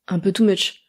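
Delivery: whispered through a laugh; a half-laughed aside. Real, not acted. Laughing aside to viewers about the dramatic option. Mocking an over-dramatic quiz answer.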